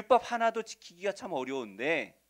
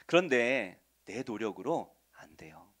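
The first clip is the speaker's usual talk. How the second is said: normal talking voice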